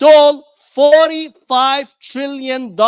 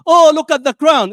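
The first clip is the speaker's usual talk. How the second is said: mock gushing fan; 4 semitones higher, 6 dB louder than usual. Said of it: "watch the royal family".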